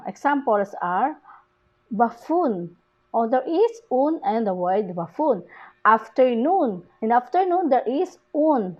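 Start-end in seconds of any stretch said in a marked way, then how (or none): 1.9-2.8 "buffoon" stressed on "-oon"; buf-FOON, weight on the ending of "buffoon"; stress on last syllable. Shown as a demonstration. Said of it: "the stress is on the word un". 5.9-6.8 "Afternoon" stressed on "-noon"; after-NOON, weight on the end of "Afternoon"; stress on last syllable. Shown as a demonstration. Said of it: "the stress is on the word un".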